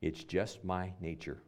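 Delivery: dying scorpion answers the turtle, fading soft; drowning scorpion. A narrator's reading. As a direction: let it fade like a scorpion going under. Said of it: "the drowning scorpion replied".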